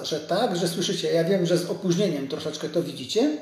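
ordinary talk, nothing marked

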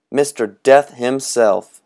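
slow, high, grand announcement; Mister Death. Acted. Boy announcing costume.

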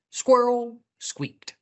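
high, slow squeak on the word; high-pitched storybook squeak; squeaky. A narrator's reading. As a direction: squeak it like a squirrel. Narrates Squirrel squeaking.

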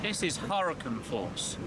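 lightly hammed-up documentary presenter; slow, grave storm report; storm chaser voice. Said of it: "Talking like a storm chaser".

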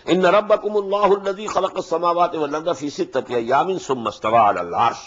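chanted Arabic recitation, melodic and flowing; Quran recitation. Acted. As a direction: recite the verse in measured tajwid chant.

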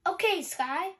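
loud, high call. Acted. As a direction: call across to Sky. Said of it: "Ryder called".

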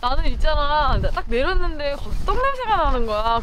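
muffled behind mask; speaking into fabric; through a face mask. Real, not acted. Seen 2: Cloth face mask covers her mouth throughout labelled words.

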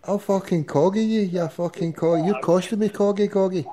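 host exploding at the caller over the cost of the call, exasperated; exasperated outburst. Real, not acted. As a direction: blow your top at him, voice rising.

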